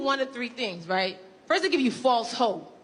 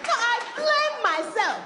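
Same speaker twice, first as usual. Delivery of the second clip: much higher hammed-up parent wail; mock self-blame; 10 semitones higher than usual. Parent insisting on blaming herself, high hammed-up lament. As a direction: overplay the wounded parent. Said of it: "they take false ownership".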